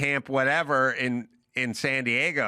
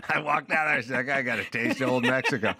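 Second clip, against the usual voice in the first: laughing. Real, not acted. Punchline in laughter.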